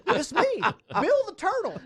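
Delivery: loud, high cartoonish greeting; big, booming high-pitched introduction; Bill the Turtle. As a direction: belt out a high, goofy hello. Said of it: "Bill goes".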